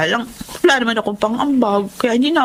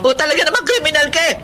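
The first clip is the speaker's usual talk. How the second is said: angry retort; 6 semitones higher, faster than usual. Acted. Quarrel, crying retort.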